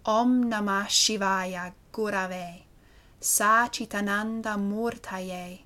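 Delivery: very slow, drawn-out Sanskrit mantra; mantra recitation. Shown as a demonstration. Yoga teacher giving the words of the mantra, slow recitation. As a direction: intone each phrase slowly, stretching the vowels.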